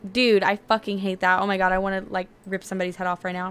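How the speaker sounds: fed-up gamer groan; frustrated outburst. Real, not acted. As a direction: vent real frustration at the game. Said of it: "I'm getting so frustrated".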